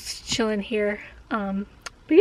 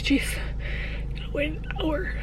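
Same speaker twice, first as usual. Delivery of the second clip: mock grumble; 4 semitones higher, 10 dB quieter than usual. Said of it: "but I was like".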